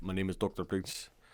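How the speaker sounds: put-on non-American accent. Imitating a man whose accent makes people believe him, put-on non-American accent. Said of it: "somebody who doesn't have an American accent".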